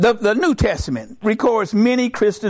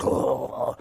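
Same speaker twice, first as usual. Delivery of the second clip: soft voiceless groan; mock suffering groan; 7 dB quieter than usual. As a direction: let out a long airy groan of strain. Brain feels the effect, groans.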